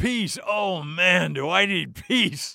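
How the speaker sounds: very slow, high, long-drawn-out cry. Retelling a man's reply after hearing a promise of peace: imitating someone yelling. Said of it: "And he yells at the same voice".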